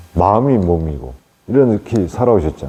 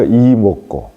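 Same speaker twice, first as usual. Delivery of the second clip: Gyeongsang dialect 이 먹고, a bit raised and louder; 3 dB louder, much slower than usual. Shown as a demonstration. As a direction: say 이 먹고 the Gyeongsang way, punching 이. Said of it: "경상도 사투리로".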